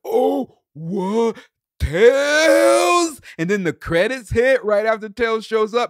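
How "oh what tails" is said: high, loud, crying out in joy; excited squeal. Retold or imitated. Imitating the thrilled girl seeing Tails, high squeal. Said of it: "And she's just like".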